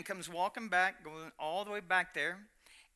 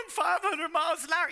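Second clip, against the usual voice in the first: mock shock; 12 semitones higher, 7 dB louder than usual. Mom's shocked reaction retold.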